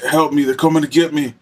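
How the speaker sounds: a hint of a terrified prisoner crying out; imitating a frantic inmate. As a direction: mimic a man begging the Lord for help. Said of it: "he kept saying that over and over".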